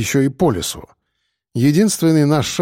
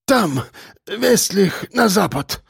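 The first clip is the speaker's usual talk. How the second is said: breathed out; 6 semitones higher, slower than usual. A narrator's reading. Richard pointing the way west, breathed out. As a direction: breathe the direction out, exhausted. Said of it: "выдохнул Рихард".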